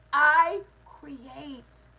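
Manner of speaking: loud, commanding declaration; from the chest. Shown as a demonstration. Coach demonstrating after ruling out wishing and desperation, from the chest. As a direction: punch it out from the chest. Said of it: "Say it with your chest".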